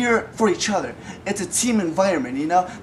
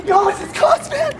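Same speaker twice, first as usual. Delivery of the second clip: angry shouting; 7 semitones higher than usual. Acted. Host yelling at camera.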